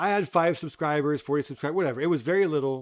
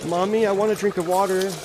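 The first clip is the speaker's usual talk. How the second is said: put-on whiny child; 4 semitones higher than usual. Mocking a kid begging Mommy to stop the movie. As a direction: beg Mommy like a frightened little kid.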